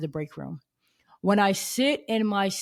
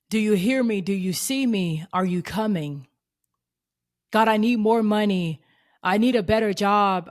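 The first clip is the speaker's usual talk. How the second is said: louder, urgent pleading to God; impassioned plea, pushing the voice; pleading prayer; 2 semitones higher, 4 dB louder than usual. Retold or imitated. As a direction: cry out to God, begging to be seen.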